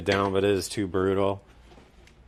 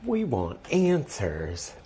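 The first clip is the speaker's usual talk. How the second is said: dramatic; 2 semitones higher, much slower than usual. Acted. Slow dramatic repeat.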